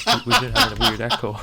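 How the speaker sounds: laughing. Real, not acted. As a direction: laugh through the words. Laughing about the echo.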